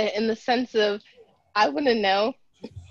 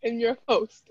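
put-on terrible British accent. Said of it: "You had a terrible British accent".

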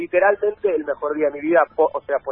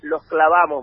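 imitating a calm reassurance; slower than usual. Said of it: "me dice".

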